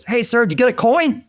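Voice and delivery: high, hollered punchline; mock calling out. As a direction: imitate a crewman shouting a cheeky question over. Acted crew member calling to pilot.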